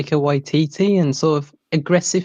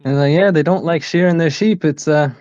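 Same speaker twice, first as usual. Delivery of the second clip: put-on Kiwi accent; 2 semitones higher than usual. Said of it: "I can sort of do a Kiwi accent".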